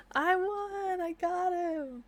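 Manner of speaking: high gloating victory cry; mock triumph. Narrator playing the triumphant bride, gloating. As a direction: crow over the win.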